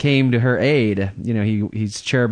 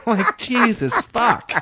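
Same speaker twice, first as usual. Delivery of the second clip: high-pitched, cracking up in dismay; laughing exasperation; 11 semitones higher, slower than usual. Acted. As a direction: squeal it through laughter, exasperated. Laughing exasperation at own barfly bit.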